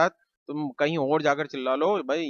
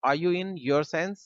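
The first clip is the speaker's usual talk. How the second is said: slow model sentence; 2 semitones higher, much slower than usual. Shown as a demonstration. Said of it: "आप कहेंगे".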